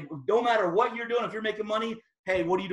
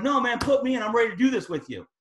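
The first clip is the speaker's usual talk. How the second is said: eager friend; 4 semitones higher, 3 dB louder, faster than usual. Retold or imitated. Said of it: "And like".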